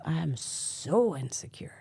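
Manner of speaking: whispered confession; breathy secret whisper. Real, not acted. Confessing insecurity.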